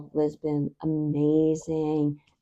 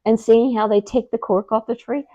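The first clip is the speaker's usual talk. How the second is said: much higher and louder, thrilled; excited; 8 semitones higher, 6 dB louder than usual. Real, not acted. Friend recalling cork trees, excitedly amazed. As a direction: gush about the cork trees.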